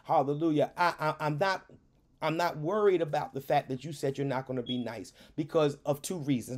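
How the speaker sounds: retold calm answer to an upset parent. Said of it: "in this tone, I said".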